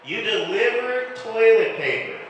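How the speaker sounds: slow, high-pitched disbelief; stretched, high incredulous echo. Real, not acted. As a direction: repeat it back in drawn-out amazement. Comic reacts to audience member's job.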